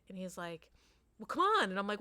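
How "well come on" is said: put-on high, loud jeer of the boy; mocking boy voice. Boy brushing off the dad, loud jeer. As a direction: toss it off like a teasing kid. Boy's reply in retold exchange.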